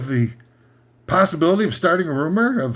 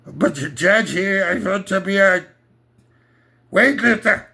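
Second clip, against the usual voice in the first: mock Austrian son; 2 semitones higher than usual. Young Arnold telling Daddy his dream, mock Austrian accent. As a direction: ask like an eager boy, Austrian accent.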